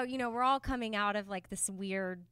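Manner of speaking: ordinary talk, nothing marked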